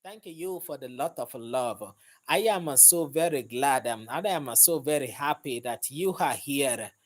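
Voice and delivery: a light mock Kenyan accent, "I am" stressed; Kenyan accent attempt. Thanking viewers while trying a light mock Kenyan accent. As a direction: try a Kenyan lilt, lightly. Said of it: "let me try to talk like a Kenyan".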